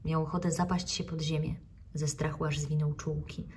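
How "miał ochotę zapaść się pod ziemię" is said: plain reading voice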